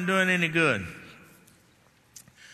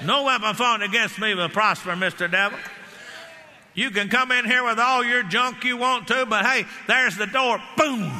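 firm commanding rebuke to the devil; bold rebuke; 4 semitones higher than usual. Retold or imitated. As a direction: order him out with full authority.

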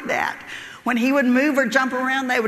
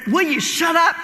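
raised, higher scolding voice; 4 semitones higher, 4 dB louder than usual. Acted. Lion pinning the man tells him off, scolding. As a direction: cut him off with an exasperated shout.

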